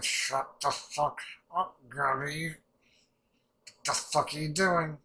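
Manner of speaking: slow, drawn-out mock telling-off; retold exasperation. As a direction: scold in disbelief, dragging the words out. Retelling an exasperated reaction to Gabby.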